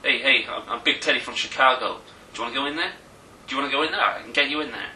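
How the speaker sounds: put-on a light Chicago tough-guy accent. Friend shows how the Chicago guy talked, light Chicago accent. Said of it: "Do the accent".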